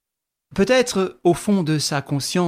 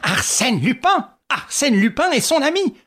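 exasperated; 9 semitones higher, 4 dB louder than usual. Acted. Ganimard exasperated.

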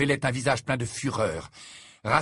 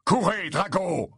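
higher, drawn-out cry; urgent exclamation; 6 semitones higher, slower than usual. A narrator's reading. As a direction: call out an urgent order to run. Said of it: "qui s'exclama".

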